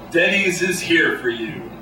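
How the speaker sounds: lightly voiced boardroom pitchman; a hint of corporate presenter, increasingly emphatic; marketing guy. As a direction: pitch it like an ad executive, building to a slogan. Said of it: "the marketing guy, the Don Draper type".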